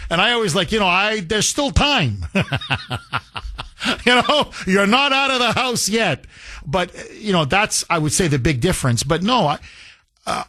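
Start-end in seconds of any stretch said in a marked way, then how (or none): 1.2-6.3 laughing joke. Real, not acted. Answering his kids at dinner, laughing. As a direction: tease them back through laughter.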